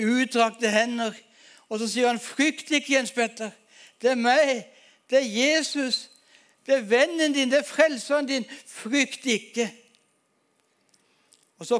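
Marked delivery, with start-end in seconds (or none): 2.2-9.7 gentle voice of Jesus. Retold or imitated. Jesus speaks gently in vision.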